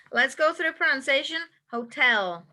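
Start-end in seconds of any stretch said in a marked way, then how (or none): 1.7-2.5 Hotel with the stress on tel; stress on second syllable. Shown as a demonstration. Teacher modelling Hotel with stress on tel. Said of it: "the accent is on the second syllable".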